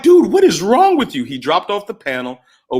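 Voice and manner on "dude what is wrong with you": high, loud, incredulous outburst; loud retold bewilderment; retold exasperation. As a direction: exclaim it in mock disbelief, pitch jumping up. Retold exasperated reaction to being yelled at.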